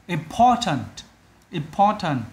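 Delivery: "Important" with stress on POR; second-syllable stress. Shown as a demonstration. Teacher showing the odd one out, second-syllable stress. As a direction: lean on POR in "Important", said twice. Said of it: "Âm hai".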